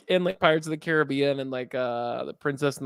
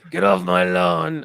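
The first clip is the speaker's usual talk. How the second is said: louder, drawn-out mock order off the lawn; imagined Django warning; 6 dB louder, slower than usual. Django catches someone walking on his lawn, mock yell. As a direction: play a homeowner ordering a trespasser away. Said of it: "Can you imagine that?".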